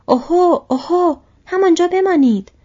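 put-on big, high-pitched old man's call; loud, high hailing shout; shouted halt. A narrator's reading. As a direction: holler a loud warning to stop. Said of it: "پیرمرد یک دستش را بالا آورد و فریاد زد".

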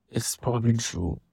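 "probably" said with careful, measured emphasis; stress on probably. Real, not acted. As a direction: lean deliberately on the word "probably". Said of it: "I'm emphasizing on the words I'm using".

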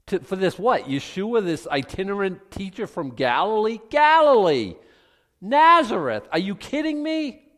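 outraged opponent mocking a nobody teacher; incredulous objector. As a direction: scoff in disbelief, voice leaping high. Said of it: "then the argument is made".

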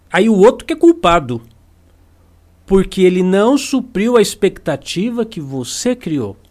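ordinary talk, nothing marked

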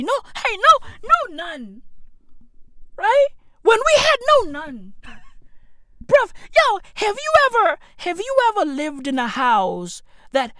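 squeaky high incredulous voice; high cartoonish exaggeration; comic high voice. Real, not acted. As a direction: pitch it up high for the joke. High comic voice about poverty.

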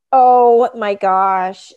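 slow, loud, drawn-out oh my gosh; stunned gasp. Retold or imitated. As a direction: let it sink in, shocked and embarrassed. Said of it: "she was just like".

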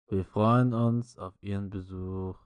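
slowed, silly ad voice; hammy commercial read, slowed down; chipper 1950s ad. Retold or imitated. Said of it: "in richtig behinderter Stimme".

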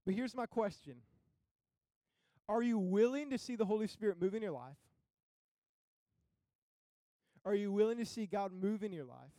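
measured, emphatic pulpit questions with long pauses; earnest preaching challenge. Acted. Preacher asking church if they are willing, earnest challenge. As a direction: put each question firmly to the congregation.

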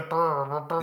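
brassy lip-buzzed "brr" noises; imitated euphonium. Shown as a demonstration. Correcting which instrument is meant, imitated euphonium noise. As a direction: mimic a euphonium with the mouth.

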